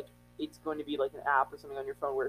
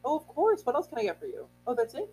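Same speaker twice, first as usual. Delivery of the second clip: higher, bright drive-thru greeting; chirpy cashier talking to customers; customer service voice; 8 semitones higher than usual. Shown as a demonstration. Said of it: "I have a really good customer service voice".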